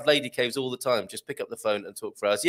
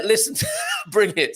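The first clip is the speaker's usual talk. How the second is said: mock shout; 6 semitones higher than usual. Reading out a rowdy comment.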